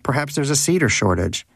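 lightly sarcastic query; needling his cagemate with a sarcastic question. Acted. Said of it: "he'd asked Danish sarcastically".

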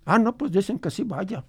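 put-on old grandfather. Grandfather recalls his ranch for the radio host, lightly voiced old man. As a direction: tell it as the old abuelo remembering his ranch.

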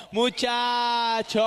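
long drawn-out stadium call; slow hammed-up cry of muchacho; stretched call. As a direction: drag it out like a chant. Announcer-style stadium call.

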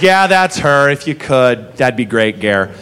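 deflated low mumble handing off the problem; a low, weary bartender passing the buck. Retold or imitated. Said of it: "And Ron goes".

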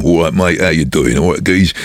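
casual cockney London accent. Shown as a demonstration. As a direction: disguise your voice as a Londoner. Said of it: "just try and talk like the Londoner".

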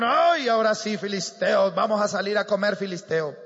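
retold battle cry. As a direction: boast like troops eager for battle. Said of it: "gritaron y dijeron". (grito de guerra imitado, moderado)

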